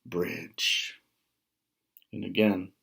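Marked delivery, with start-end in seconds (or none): 0.0-1.0 slow, loud troll voice sinking at the end; roaring troll. Acted. Troll roars at the goat crossing his bridge. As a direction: boom it out like a troll under a bridge. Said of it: "The troll roared again".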